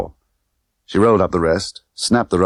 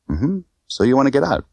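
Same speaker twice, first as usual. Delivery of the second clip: Tiffany voice; 8 semitones higher than usual. Acted. Tiffany questioning Bond.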